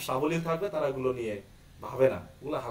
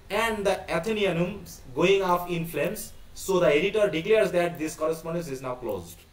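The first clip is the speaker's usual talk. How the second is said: slow, deliberate read-aloud of a play; reading text aloud; much slower than usual. Acted. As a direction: read it out word by word, slowly. (ধীরে ধীরে নাটক পাঠ)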